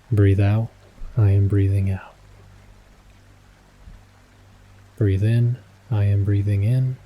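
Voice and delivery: calm, measured meditation guide, long pauses; unhurried breathing cues with long silences between; guided meditation. Acted. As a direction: guide them gently through each breath.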